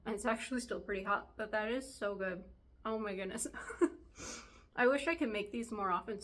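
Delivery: talking through a mouthful of pie; words round a hot bite; mouth full. Real, not acted. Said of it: "talking with my mouth full".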